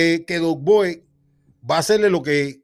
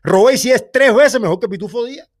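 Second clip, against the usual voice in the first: exasperated outburst; 4 semitones higher than usual. Real, not acted. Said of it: "ya me tienes loco".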